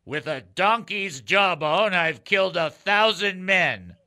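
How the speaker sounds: slow, loud, dramatic Samson voice. Acted. Host reading the trivia quote to the caller in a slow, booming Samson voice. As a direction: boom out the line like a mighty warrior. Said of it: "I'm gonna do it in the voice".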